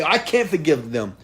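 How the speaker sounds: imitating a hurt listener's slow, loud complaint; mock anguished protest. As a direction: wail that they ruined your life. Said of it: "you say".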